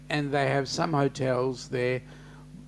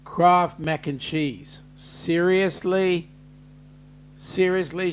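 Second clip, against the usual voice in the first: mock disbelief; 4 dB louder, slower than usual. Real, not acted. Disbelief at viewer's dinner.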